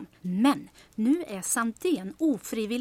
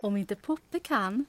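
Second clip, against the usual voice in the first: 1 slow dramatic setup; slower than usual. Acted.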